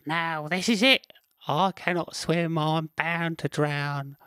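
high squirrel voice, slowing to a fearful end; panicked squirrel. Acted. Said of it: "Squirrel thought".

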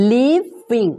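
"leaving" split in two around a careful V; clear V sound. Shown as a demonstration. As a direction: model "leaving" as leav-ving. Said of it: "ตัว V นะคะ".

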